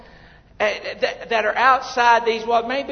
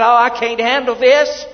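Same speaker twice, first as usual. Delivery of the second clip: mild mock shout; 3 semitones higher, 7 dB louder than usual. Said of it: "I may shout out".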